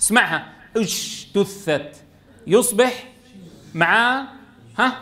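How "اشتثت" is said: اجتثت with the ج leaking into a hushing "sh"; whispered jeem. Shown as a demonstration. Teacher shows students the faulty jeem, whispered ج in اجتثت. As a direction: say اجتثت with a soft breath-leaking ج, like "sh". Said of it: "كيف يصير الجيم مهموس؟ اسمعها".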